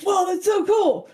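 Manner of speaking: put-on high, loud childlike shout of wonder; a little boy amazed by ninjas; awed kid. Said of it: "the kid's like".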